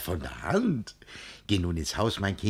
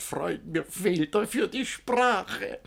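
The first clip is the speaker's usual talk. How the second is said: laughing mockery; 10 semitones higher, slower than usual. Arnulf mocks with high laugh.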